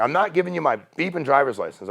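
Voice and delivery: usual speaking voice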